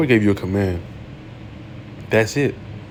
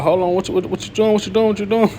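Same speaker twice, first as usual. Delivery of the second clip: much higher, frantic mock pleading with a laugh; panicked son; 11 semitones higher, 4 dB louder than usual. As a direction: play the boy freaking out on the altar, half laughing. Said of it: "he was probably freaking out, like".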